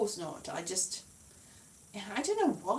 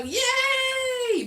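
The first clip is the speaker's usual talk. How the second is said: high squeaky yay; a sarcastic little hooray; mock cheer; 13 semitones higher than usual. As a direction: ironic high-pitched celebration. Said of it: "and I go".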